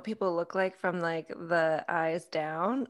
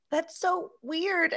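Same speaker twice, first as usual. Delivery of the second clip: high, slow, laughing words; amused disbelief; 10 semitones higher, much slower than usual. Retold or imitated. Daughter reacting to parents saving laugh videos, laughing disbelief. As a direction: say it through a laugh, drawn out.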